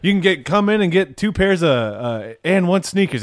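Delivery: high-pitched cartoon pitchman; Mister Allen. Imitating a skate shop commercial for friends, high cartoon salesman. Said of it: "and then be like".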